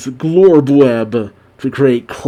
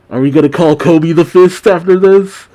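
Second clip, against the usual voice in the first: louder, higher, hyped-up questions; excited reaction; 4 semitones higher, 4 dB louder, faster than usual. Real, not acted. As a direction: fire off giddy, amazed questions.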